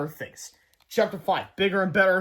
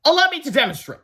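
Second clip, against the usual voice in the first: high, loud showman's flourish; grand announcement; 9 semitones higher, 6 dB louder than usual. A narrator's reading. Melvin showing off his machine to the boys, grandly. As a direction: present it like a proud inventor.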